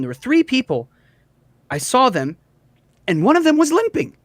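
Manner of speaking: halting witness account, lifting in pitch on key details; lightly voiced townswoman, recalling. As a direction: piece together what you saw last night. GM plays Treese recounting a sighting.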